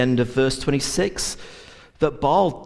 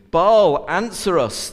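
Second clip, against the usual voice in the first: higher, louder cry to Baal; a preacher's raised cry for the prophets of Baal; shouted plea; 5 semitones higher, 3 dB louder than usual. Retold or imitated. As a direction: call out to Baal as a frantic prophet. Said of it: "they shouted".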